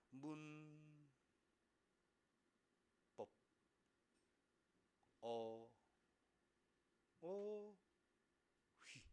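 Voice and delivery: "문법 어휘" stretched syllable by syllable; mock painfully slow sounding-out of "문법 어휘"; exaggerated slow reading. Shown as a demonstration. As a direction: drag out each syllable with long gaps. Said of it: "그러면 이걸 이렇게 읽어요?".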